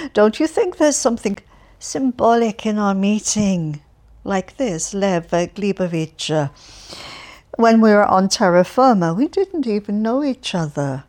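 put-on loud, chatty, cheerful old man voice; cheerful Alferov. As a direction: prattle on brightly to a stranger. Alferov muses on the meeting.

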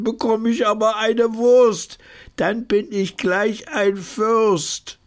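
hoch, gedehnt gejammerte Reime; weinerlich deklamiert. Acted. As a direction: jammernd vorgetragene Bettelverse. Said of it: "deklamiert mit weinerlicher Stimme". (sehr hohe, langsame, weinerliche Reimrede)

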